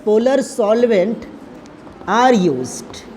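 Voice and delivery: slow, drawn-out dictation; word-by-word note-giving; dictating while writing. Real, not acted. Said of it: "तो मैं इधर लिखता हूँ".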